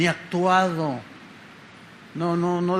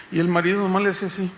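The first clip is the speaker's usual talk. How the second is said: ordinary talk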